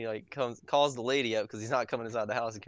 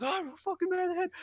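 very high mock-raging squeal; imitated freak-out. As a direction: mimic a man ranting, pitch shooting up. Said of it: "This dude's freaking out".

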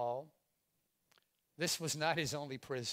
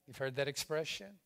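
normal talking voice

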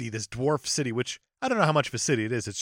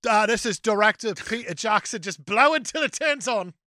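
imitating Gandalf; 7 semitones higher than usual. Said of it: "like, just".

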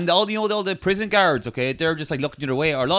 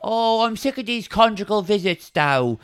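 high, put-on whiny wife; hammed-up high whining wife; mock wife voice; 6 semitones higher than usual. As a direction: whine at Pat in a high voice. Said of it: "she's like".

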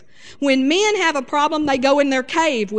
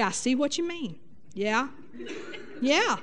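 soft listening; 8 dB quieter than usual. Shown as a demonstration. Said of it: "just listen and say".

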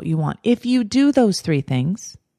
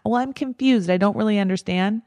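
a hint of a helpless whine; mild whiny confusion; 3 semitones higher than usual. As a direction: lightly imitate someone playing dumb. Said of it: "If you hear yourself doing that".

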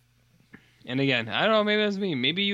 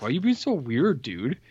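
imitated puzzled complaint; 3 semitones higher than usual. Retold friends puzzled by his secrecy.

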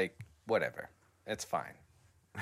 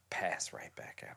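whisper; 7 semitones lower, 9 dB quieter than usual. Real, not acted. Describing falling back asleep.

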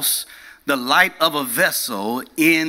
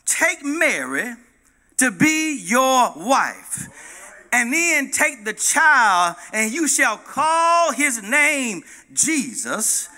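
slow, solemn divine command; a lightly voiced, slow God speaking in a dream; 5 semitones higher, slower than usual. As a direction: speak each phrase slowly as God.

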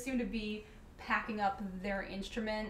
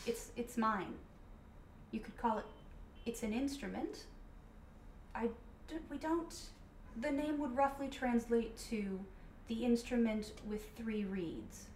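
grand rhythmic bard; 5 dB quieter than usual. Acted. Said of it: "your default bard voice".

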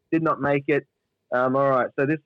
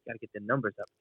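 mock Wolf of Wall Street; 4 semitones lower, 11 dB quieter, much faster than usual. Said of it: "mimicking that fucking part in".

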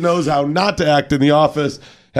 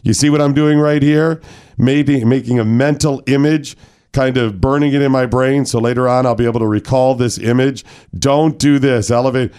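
seminar presenter. Acted. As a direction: address the men like a corporate trainer. Presenting mock harassment seminar.

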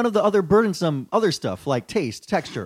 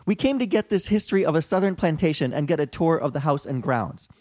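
lightly voiced white-girl reviewer, punched words; 4 dB louder than usual. Reading a tourist's plantation review to co-hosts, lightly put-on white girl. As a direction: read the complaint as a mock white girl. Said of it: "in my white girl vo-, voice".

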